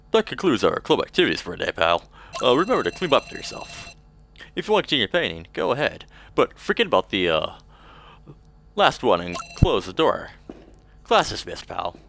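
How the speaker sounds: lightly voiced noir detective; a hint of a hard-boiled detective; gumshoe voice. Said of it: "Give him, like, a gumshoe voice".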